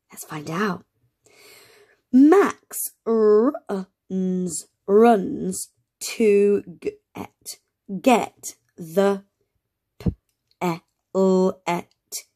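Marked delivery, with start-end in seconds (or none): 2.1-12.2 slow sounding out. Shown as a demonstration. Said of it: "Shall we say it together".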